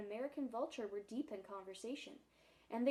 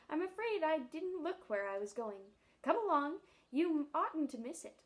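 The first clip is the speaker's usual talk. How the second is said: eager lion; 3 semitones higher, 5 dB louder than usual. Acted. Lion greets Jane eagerly.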